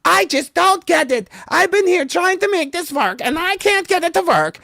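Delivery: high, loud whiny complaint; Peggy Hill yelling. Retold or imitated. Lady yelling at helper about the broken washer, high whine. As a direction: wail it like the cartoon housewife. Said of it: "She's like".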